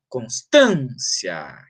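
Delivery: "constância" slowed with a long "tân"; drawn-out "cons-TÂN-cia"; stress on AN. Shown as a demonstration. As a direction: stretch the stressed middle of "constância". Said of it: "a sílaba tônica é an".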